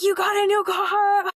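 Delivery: imitating the niece screaming with joy; excited shriek. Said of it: "she's like".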